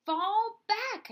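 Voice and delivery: put-on boy shouting the order he just decoded; shouted battle order. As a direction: read it out like a command. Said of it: "I shouted".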